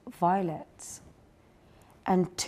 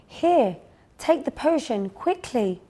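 urgent fairy nurse; 6 semitones higher than usual. Acted. Fairy nurse urging patient.

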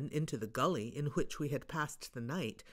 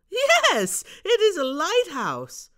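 high, loud excited shout; calling out; 14 semitones higher, 11 dB louder, slower than usual. Acted. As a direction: call down, delighted. Bob calling down, laughing.

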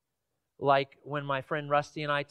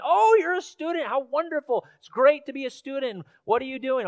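a light, higher, chatty English gentleman; chirpy English gentleman; 7 semitones higher, 4 dB louder than usual. Retold or imitated. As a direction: play the friendly stranger with a lifted voice. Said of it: "says in this very thick British English accent".

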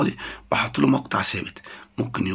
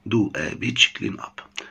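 very slow, careful English; slow model phrase; much slower than usual. Shown as a demonstration. Teacher models the phrase slowly for students. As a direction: spell out the phrase word by word. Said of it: "teacher repeats the phrase slowly".

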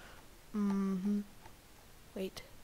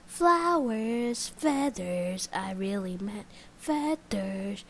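imaginary viewer; 5 dB louder, slower than usual. Pretend. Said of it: "Someone says".

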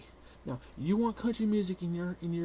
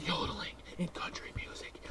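whisper; 6 dB quieter than usual. Acted. Sinister aside.

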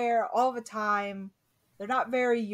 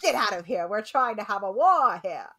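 1950s announcer; 4 dB louder than usual. Pretend. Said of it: "the ants are nineteen fifties announcers".

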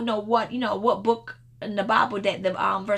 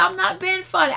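earnest insistence; 9 semitones higher, 5 dB louder than usual. Retold or imitated. Friend insists she is serious.

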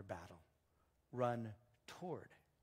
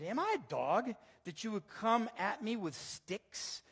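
slow, raised, indignant question; lightly acted giant's taunt, louder; Goliath's scornful challenge; 7 semitones higher, 5 dB louder than usual. Goliath taunts David in the reading.

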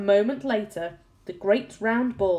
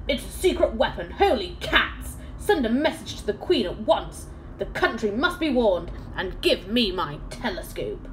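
alarmed ship captain; 2 semitones higher than usual. Acted. Captain giving orders.

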